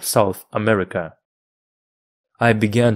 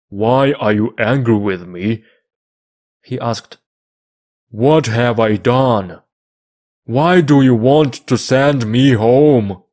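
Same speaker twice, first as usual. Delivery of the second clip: hurt pleading; 4 dB louder than usual. A narrator's reading. Friday hurt, fears being sent away.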